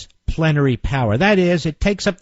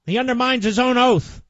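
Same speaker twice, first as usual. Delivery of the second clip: indignant retort; 5 semitones higher than usual. Real, not acted. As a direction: slam the truth back at the hedging. Host answers the mocked senator.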